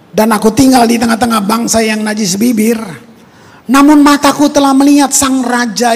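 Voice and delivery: a hint of Isaiah's dread cry. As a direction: proclaim it like a stricken prophet. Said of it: "dia ngomong sendiri".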